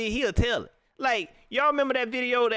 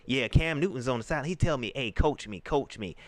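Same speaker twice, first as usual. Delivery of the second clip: mocking the coach; 7 semitones lower than usual. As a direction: lower mock presser voice. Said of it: "tried to say".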